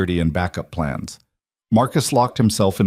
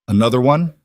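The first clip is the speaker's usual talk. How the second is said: a bitter, louder jab; 4 semitones higher, 4 dB louder, faster than usual. Acted. Brother resenting yet another threat, bitter. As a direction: spit it out bitterly. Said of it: "Marcus's voice was bitter".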